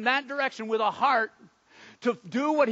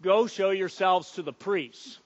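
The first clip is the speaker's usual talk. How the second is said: firm, measured order; understated voice of authority; firm command; 4 semitones lower than usual. Acted. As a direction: give a calm, firm instruction. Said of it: "he commanded in a firm voice".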